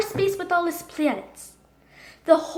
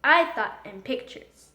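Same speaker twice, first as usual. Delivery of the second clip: ordinary delivery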